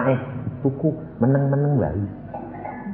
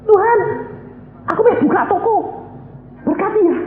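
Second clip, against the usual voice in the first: higher, whiny voice ordering God; mock bossy prayer; faster than usual. Preacher mocks a believer's prayer before travelling, higher whiny voice. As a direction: play a believer treating God as a guard.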